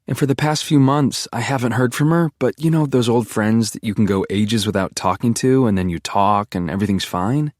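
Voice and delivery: lightly voiced girlfriend, shaken and rambling; girlfriend voiced, upset. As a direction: girlfriend explaining her friend's death, mildly upset.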